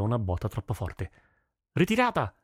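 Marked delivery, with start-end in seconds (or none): 1.7-2.4 high-pitched, contained cry of retreat; narrated battle cry; understated shouted order. A narrator's reading. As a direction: call the retreat without full volume. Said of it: "gridò il capo dei Femmin".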